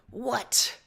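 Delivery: sharp annoyed snap; snapped. Acted. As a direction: bite the word off. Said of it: "you snap".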